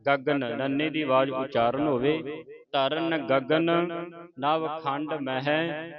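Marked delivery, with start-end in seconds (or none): 2.7-5.9 slow, measured verse recitation; slow devotional reading; scripture recitation. Shown as a demonstration. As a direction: recite with long drawn-out vowels.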